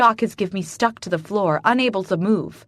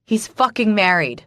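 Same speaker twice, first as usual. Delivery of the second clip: bark; 2 semitones higher, 4 dB louder than usual. Acted. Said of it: "I bark".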